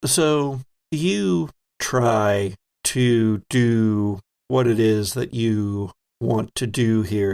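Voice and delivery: slow, deliberate scene-setting with weighted words; game master narration. A narrator's reading. Game master walking a player through a rescue attempt, slow narration. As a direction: draw out the phrases with suspenseful gaps.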